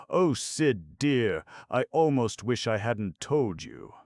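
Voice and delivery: high, pained sigh of a worried mother; sad mother's voice. A narrator's reading. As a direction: let the regret rise in her voice. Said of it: "her mother's voice was so sad".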